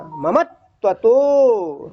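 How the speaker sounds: ममत्वतो very slowly with the त doubled; slow syllable-by-syllable recitation; double ta. Shown as a demonstration. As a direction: read ममत्वतो as ममत्-त्वतो. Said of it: "वो ता को दो बार पढ़ना".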